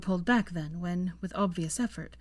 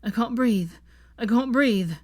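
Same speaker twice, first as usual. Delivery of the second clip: louder, panicked repeats; rising panic; 4 semitones higher, 7 dB louder than usual. A narrator's reading. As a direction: panic building with each repeat. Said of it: "slightly panicked".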